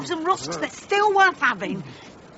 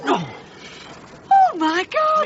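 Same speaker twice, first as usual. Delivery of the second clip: frightened cry; 4 semitones higher, slower than usual. Acted. Sack starts moving, frightened woman.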